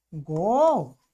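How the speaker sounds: अघोटिष्ठ drawn out in separate long syllables; slow model form. Shown as a demonstration. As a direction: stretch अघोटिष्ठ slowly for the class. Slowly models new form.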